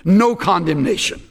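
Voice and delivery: "No" punched at the front, then "condemnation"; emphatic NO. Shown as a demonstration. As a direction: land firmly on the opening "No". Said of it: "It appears at the beginning of the sentence for emphasis".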